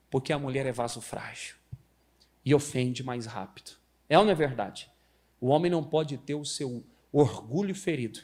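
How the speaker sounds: ordinary delivery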